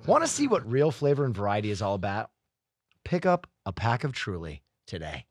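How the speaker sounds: sponsor pitch dropping low at the close; ad read. Real, not acted. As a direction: read the sales line to a finish. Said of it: "do an ad read".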